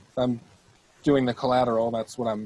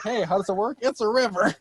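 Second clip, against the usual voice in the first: ad voice; 7 semitones higher than usual. Acted. Mock commercial pitch.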